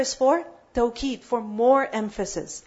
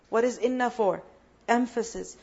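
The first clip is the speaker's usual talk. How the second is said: normal talking voice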